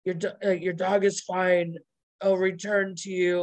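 lightly voiced gravelly kidnapper; Joey's gravelly voice. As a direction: imitate a gruff ransom caller, a bit low. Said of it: "really low, gravelly voice going on".

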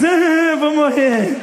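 high, comic wail of doom; mock panic. Teenager trapped in a stranger's car, hammed-up panic.

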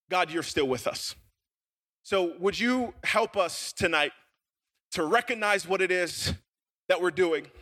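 unhurried, earnest public prayer. Real, not acted. Pastor prays with the room as he opens, prayer. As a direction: pray aloud for the congregation, measured.

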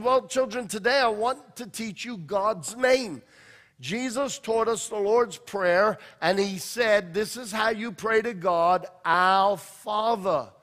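lightly voiced, careful children's teacher; Sunday school teacher. Sunday school teacher telling the class God's name, earnest and instructive. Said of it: "she's making sure she's teaching everything right".

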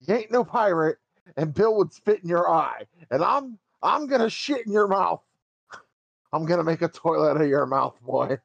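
shrill-pitched New York tough guy yelling threats; high New York yell. Retold or imitated. Mimicking the yelling father in a high New York accent. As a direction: scream it like an angry high-voiced New Yorker. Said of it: "yell at me in a high New York accent".

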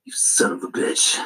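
hushed, breathy swearing under breath; whispered curse. Acted. Hit by tentacle, cursing quietly.

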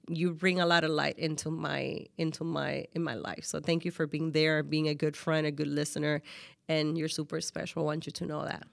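soft, low sincere gratitude; heartfelt thanks. Real, not acted. Host thanking her close friend for being there, heartfelt. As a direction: speak tenderly, voice dropped low.

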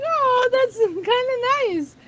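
half laugh, half cry at a kind surprise; laughing, touched. Retold or imitated. Daughter recalling her dad's acceptance, laughing and teary.

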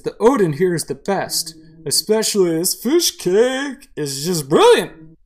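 loud, drawn-out tipsy raving; drunk man. Acted. Drunk man praising the fish cake, loud and tipsy. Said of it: "Let's talk to the drunk man".

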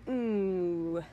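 long frustrated "ooh", sliding down; exasperated groan. Real, not acted. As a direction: let out a drawn-out groan of exasperation. Venting anger at the captain.

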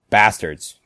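angry curse. Acted. Angry outburst in monologue.

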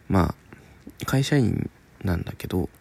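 ordinary talk

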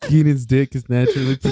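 cracking up mid-sentence; laughing. Real, not acted. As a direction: giggles breaking the words. Breaks up laughing.

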